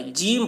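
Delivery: جیم with long ī, "jeem"; the correct جیم, rhyming with "team"; معروف pronunciation. Shown as a demonstration. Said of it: "یعنی معروف پڑھا گیا ہے". (جیم، یائے معروف کے ساتھ)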